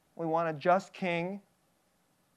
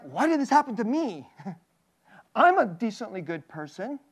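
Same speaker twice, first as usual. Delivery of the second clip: indignant self-pity; 4 semitones higher, 3 dB louder than usual. Retold or imitated. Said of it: "Isn't there like".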